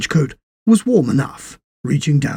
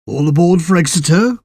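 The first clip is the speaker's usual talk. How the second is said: a porter's raised call down the platform; 4 semitones higher, 6 dB louder, faster than usual. Acted. Porter announcing the Exeter train, called out loud. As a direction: sing it out to the whole station. Station porter calling out departures.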